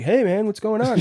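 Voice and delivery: lightly voiced fellow patient asking what's up; guy's voice. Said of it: "somebody else in the study was like".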